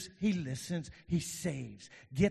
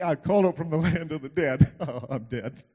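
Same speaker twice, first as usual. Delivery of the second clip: acted Jonah crying out; 6 dB louder than usual. Voicing despairing Jonah again.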